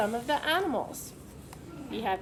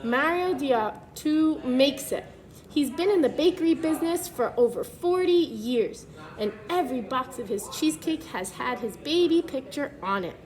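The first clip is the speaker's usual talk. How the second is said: put-on clear, even storybook read-aloud for kids; reading to children; 3 dB louder than usual. Teacher reads the book to the class, storybook read-aloud voice.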